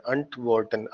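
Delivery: antworten with a short "unt" start, in clear syllables; short opening a. Shown as a demonstration. Teacher models the correct antworten, short first "a". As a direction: say antworten as unt-vor-ten. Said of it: "इसको ऐसे ही बोला जाता है".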